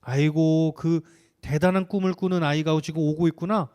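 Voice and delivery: sneering at the dreamer; 비꼬는 말투; mocking sarcasm. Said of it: "비꼬면서 말했어".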